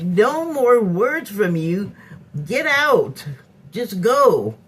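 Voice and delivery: drawn-out, emphatic commands with pauses between; retold stern order. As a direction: re-enact throwing someone out.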